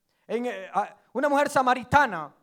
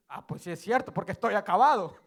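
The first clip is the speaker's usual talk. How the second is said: mock poor brother; 4 semitones lower than usual. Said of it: "Y aquel dice".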